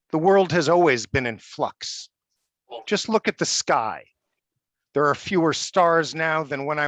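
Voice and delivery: measured prose-poem recital; poem reading. Acted. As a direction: deliver each sentence as a separate statement, pausing between. Reads prose poem Marbles.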